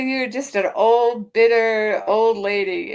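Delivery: slow, slightly put-on voice quoting an insult; lightly voiced mock quote of the taunt. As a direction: drag out the insult mockingly. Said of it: "She, she's a".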